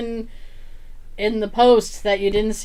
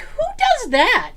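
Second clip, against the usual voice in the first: mock outrage; 13 semitones higher, slower than usual. Mock outrage at ping pong thrower.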